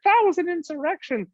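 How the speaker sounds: high mocking voice of a hysterical crowd; high sneering mimicry of the people he calls lunatics. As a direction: parody their panic, pitch way up. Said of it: "all the lunatics were like".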